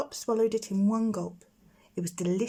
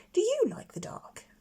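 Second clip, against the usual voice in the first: timid whispered question; 13 semitones higher than usual. Acted. Plop shyly asking the girl about the dark, whispered.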